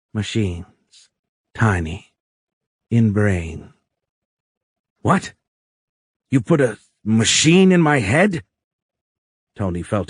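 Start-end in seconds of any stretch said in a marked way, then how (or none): 0.1-3.7 lightly voiced alien in broken, separated words; each word set apart, as if just learned; halting alien. A narrator's reading. Alien explains implants to captive Tony, halting. 5.0-8.4 high-pitched, louder shocked question; alarmed disbelief. A narrator's reading. Captive Tony learns of machines in his head, alarmed.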